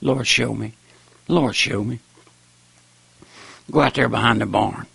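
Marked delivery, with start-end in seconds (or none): 0.0-2.0 pleading prayer. Retold or imitated. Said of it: "Ask the Lord".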